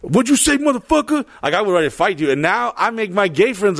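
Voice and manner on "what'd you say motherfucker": mock-aggressive, high-pitched challenge; confrontational challenge. Young hothead retelling his reaction, confrontational. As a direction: act out picking a fight.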